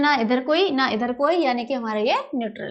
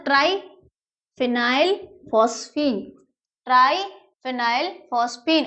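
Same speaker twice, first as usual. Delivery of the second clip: slow dictation; slower than usual. Shown as a demonstration. Teaches the ligand's name.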